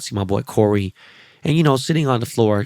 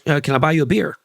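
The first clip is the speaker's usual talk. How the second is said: imitating Tom Holland; 5 semitones higher than usual. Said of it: "He goes".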